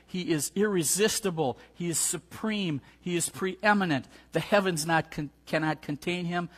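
Brother Lockridge preaching. Retold or imitated. Pastor quotes Brother Lockridge's sermon to congregation, mild preaching build. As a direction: echo a great preacher's rolling list, lightly. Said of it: "That brother can preach".

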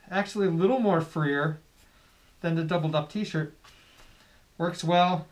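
muffled by cloth covering; speaking behind bandana; through a face mask. Real, not acted. Seen 5: Red bandana mask covers mouth and nose throughout the words.

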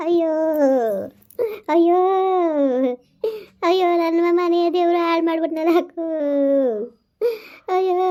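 keen over the son; mother wailing to her sister; wailing lament. Acted. Mother wails over sick son.

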